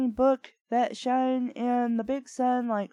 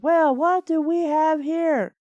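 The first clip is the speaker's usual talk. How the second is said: mock British butler; 7 semitones higher, 6 dB louder than usual. Butler speaks in fanfic.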